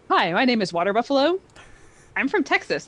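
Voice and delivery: lightly voiced goofy buffalo, quick; a hint of a dopey buffalo character; water buffalo voice. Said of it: "This is my water buffalo voice".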